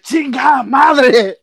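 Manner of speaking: drawn-out, high, loud mock shout; frustrated dad cursing. Dad throwing the pill bottle, retold angry Spanish swearing. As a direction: imitate an exasperated Spanish curse. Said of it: "he got so frustrated".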